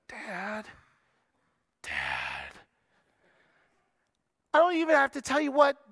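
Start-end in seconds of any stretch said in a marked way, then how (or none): 0.1-2.6 whining dad call. Shown as a demonstration. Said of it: "if she goes".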